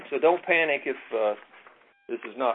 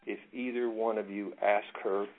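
hushed, much softer judge's warning; very quiet voice; 2 semitones lower, 7 dB quieter than usual. A narrator's reading. Judge quietly warning both lawyers at the bench, hushed. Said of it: "And in a very quiet voice".

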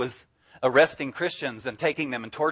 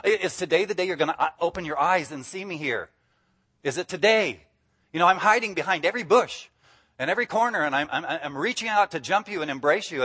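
imitating impatient eagerness, pitched up at times; excited, eager; 3 semitones higher, faster than usual. Jesus waiting for people to notice him, acted eagerness. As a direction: plead eagerly in a tumble of words. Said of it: "He's so excited. He's just like".

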